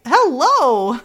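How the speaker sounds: high, lilting mock hello; cutesy greeting. Retelling her greeting him at the reunion, cutesy greeting. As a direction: swoop through a playful hello.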